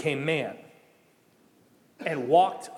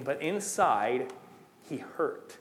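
hushed, nearly whispered; 6 dB quieter, much slower than usual. Acted. Preacher drops to a hush.

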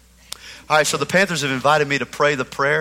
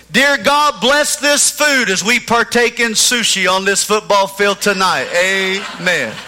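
echoing stadium announcer; 4 semitones higher, 5 dB louder, slower than usual. Shown as a demonstration. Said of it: "Here's what I'm gonna pray".

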